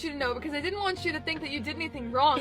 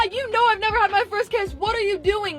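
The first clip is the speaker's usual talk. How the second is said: raised, alarmed voice, replaying the moment; retold freak-out; 5 semitones higher than usual. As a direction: reenact a flustered scolding. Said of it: "I freaked out".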